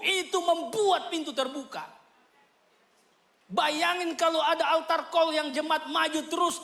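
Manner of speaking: fiery preaching. Acted. Preacher exhorts the congregation to build ties with God, fiery. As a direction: preach it out with full force.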